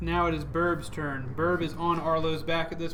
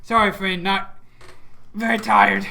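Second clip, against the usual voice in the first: Burb; 4 semitones higher, 9 dB louder than usual. Acted. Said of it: "Burb says".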